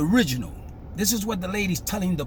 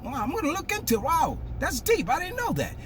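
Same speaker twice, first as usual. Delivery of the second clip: humble; 9 semitones higher than usual. Retold or imitated. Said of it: "if it was me".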